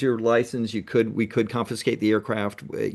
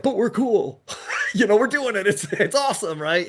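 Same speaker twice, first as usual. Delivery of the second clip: breezy, higher, carefree brush-off; mock carefree; 8 semitones higher than usual. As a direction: play it like it's no big deal, lightly. Retelling his carefree reply.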